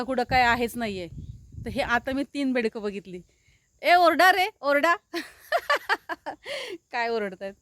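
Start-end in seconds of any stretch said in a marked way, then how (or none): 3.8-5.0 loud playful call, higher; calling out to frogs. Real, not acted. 5.5-6.9 high burst of laughter. Real, not acted. Laughs after calling frogs.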